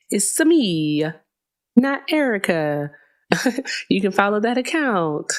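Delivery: lightly put-on playful voice, pitch slightly up; odd put-on voice. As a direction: say it in a silly sing-song voice. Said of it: "I don't know why I'm talking like this".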